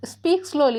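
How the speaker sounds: very slow, each word stretched out; slow demo. Shown as a demonstration. Teacher to students, saying it very slowly. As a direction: model the slow pace you're asking for.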